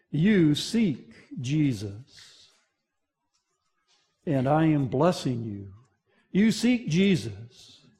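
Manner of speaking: soft, slow, intimate; voice of God. Acted. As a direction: bless the listener quietly as God. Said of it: "the voice of God saying to you".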